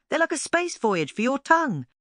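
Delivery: high, bright exclamation full of delight; exclaimed. A narrator's reading. Lulu marvelling at her cupcakes, high and excited. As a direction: gush with amazement. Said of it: "she exclaimed".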